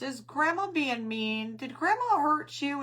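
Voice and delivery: high, loud, drawn-out mock sympathy; imitated coddling parent. Grandmother imitating her son comforting his crying boy, mock coddling. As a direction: coo loudly at a crying toddler, hammed up. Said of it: "my son plays into that".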